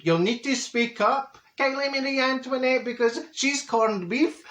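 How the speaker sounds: mild mock shout. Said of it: "wee Josh is shouting across the flare".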